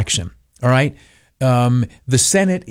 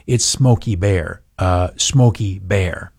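correcting pedant; 6 semitones lower, slower than usual. Retold or imitated. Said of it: "and they say".

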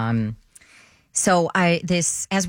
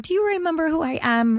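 hopeful question; 10 semitones higher than usual. Retold or imitated. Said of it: "she was like".

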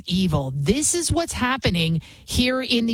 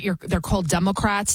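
ordinary talk, nothing marked

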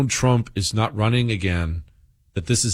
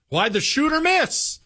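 much higher, sneering put-on voice; mocking Democrat voice; 14 semitones higher than usual. Host parodying Democrats online, high mocking voice. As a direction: ham up a heartless partisan. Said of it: "This is how Democrats speak regularly now".

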